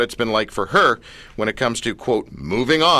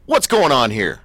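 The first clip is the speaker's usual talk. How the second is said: lightly voiced sitcom-kid catchphrase; a hint of a comic TV character's question; Arnold; 3 dB louder than usual. Host retelling his youthful line to a girl, lightly mock Arnold. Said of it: "Thank you, Arnold".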